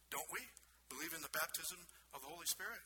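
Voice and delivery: softly puzzled, rising question; unsure self-questioning. Retold or imitated. Pastor silently checking his own church's belief, tentative. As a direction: wonder it quietly to yourself. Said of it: "I thought to myself".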